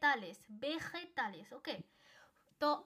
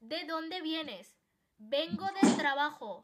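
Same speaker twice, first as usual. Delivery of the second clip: 1 slow model dialogue; 7 dB louder, much slower than usual. Shown as a demonstration. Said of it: "তো সে বলবে".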